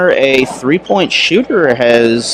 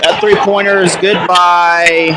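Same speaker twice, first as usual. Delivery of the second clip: raised pitch, drawn-out play-by-play call; live play-by-play; 4 semitones higher than usual. Real, not acted. Announcer calling a three-point shot to viewers, lifted play-by-play. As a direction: call the action as it unfolds, stretching the linking words.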